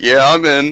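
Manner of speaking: put-on boozy drunk voice. Playing a drunk character agreeing to a bet: drunk character voice. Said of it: "Aramel's drunk".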